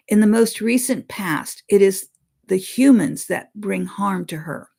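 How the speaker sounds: solemn read-aloud of a spirit's words; reading a channeled message. Acted. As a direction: deliver the message deliberately, like scripture.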